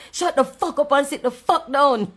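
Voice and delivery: loud, slow, fed-up order; angry command. Real, not acted. Telling rude commenters to shut up, slow and loud. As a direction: spell it out slowly and loudly, fed up.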